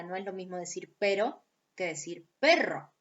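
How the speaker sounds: "pero" with a single tapped r, then "perro" with a long rolled trill; tap versus trill. Shown as a demonstration. Teacher to class, contrasting tap and trill. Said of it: "Una es vibrante simple, la otra es vibrante múltiple".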